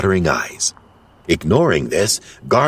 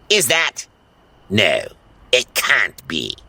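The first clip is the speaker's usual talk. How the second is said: disbelief; 3 semitones higher than usual. Acted. Gargamel disbelief.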